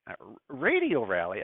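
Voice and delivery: slow, puzzled repeat of "radio rally"; bemused at the Aussie word; puzzled echo. Real, not acted. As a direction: try the new term out slowly, unsure. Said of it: "I didn't know what that was".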